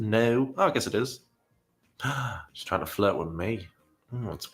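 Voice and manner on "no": imitating a British "no"; mock British accent. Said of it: "her saying no in that British accent".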